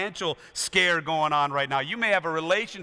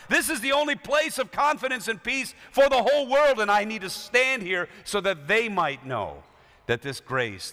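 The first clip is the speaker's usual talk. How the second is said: Luther's bold declaration. Retold or imitated. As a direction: proclaim it, then let it fall to a whisper of conviction. Luther's declaration, voiced in sermon.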